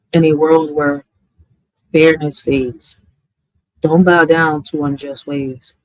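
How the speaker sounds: poem recitation. Acted. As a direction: read each line of "In a world where fairness fades" as a measured poem, with pauses between lines.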